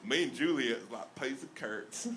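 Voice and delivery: lightly played-up Southern accent; simple, folksy Southern twang; Southern-accented Shakespeare. Comic performing Romeo for a crowd, mild Southern accent. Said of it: "Southern accent".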